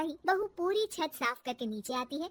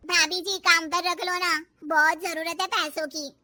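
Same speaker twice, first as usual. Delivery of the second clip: pleading maid; 6 dB louder than usual. Acted.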